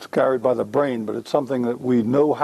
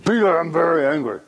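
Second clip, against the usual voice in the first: understated acted anger, serious; serious mock anger; 2 semitones higher than usual. Shown as a demonstration. Role-played father confronts son over the car, serious mild anger. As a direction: say it sternly, only mildly angry. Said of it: "keep the face serious".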